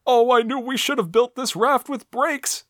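high mock Luigi; lightly hammed high Luigi voice; Luigi quip. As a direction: toss it off like a cartoon plumber. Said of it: "Luigi quips".

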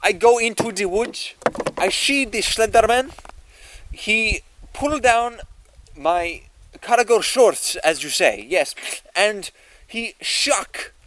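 put-on broken English, light Russian accent. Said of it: "Are you Russian?".

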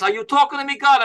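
a mild De Niro impression with talking punched; a hint of a New York accent; Robert De Niro. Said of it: "So his talk is like this".

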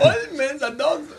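slow, mocking Asian accent through a laugh; teasing copy of a friend's put-on accent. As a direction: echo the fake accent while laughing. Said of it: "he trying to do an Asian accent".

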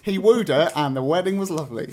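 breezy skip-ahead summary; mock retelling. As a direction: gloss over it lightly. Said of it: "I'd say".

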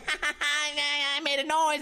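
high, drawn-out mock kid voice; little kid imitation. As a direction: stretch it out high like a noisy toddler. Mimics the noisy little kid.

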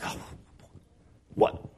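sudden high squeak of confusion on "What did we do?"; mock bewildered disciples; baffled disciples. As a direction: caught off guard, scrambling for an answer. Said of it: "now they're just like".

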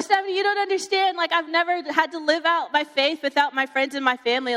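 high, mildly panicked pleading, easing downward; retold freaking out. Teenager pleading with her best friend, freaking out. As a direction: re-enact your own teenage meltdown, lightly dramatised. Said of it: "I started freaking out".

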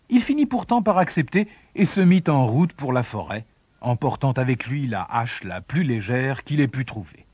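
ordinary delivery

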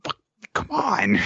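slow, high-pitched exasperated groaning; drawn-out comic disgust; mock exasperation. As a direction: act fed up, dragging the words out high. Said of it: "giving dirty looks to everybody".

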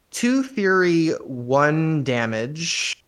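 flat, slow, unimpressed read. Real, not acted. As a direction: sound totally unimpressed. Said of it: "if I sound unimpressed".

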